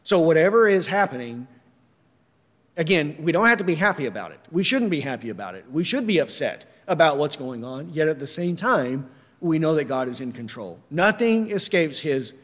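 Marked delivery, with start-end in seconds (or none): none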